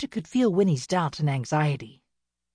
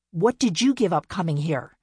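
louder, sneering question; mocking; 4 dB louder than usual. Winnie mocks her younger sister, louder and sneering. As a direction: taunt her with it. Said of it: "she mocked".

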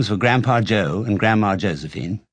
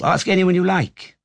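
high-pitched, insistent outburst; excited cry; 8 semitones higher than usual. A narrator's reading. Four old people assure doubting Charlie, excited cry. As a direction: insist eagerly in a raised voice. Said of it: "cried all four of the old people at once".

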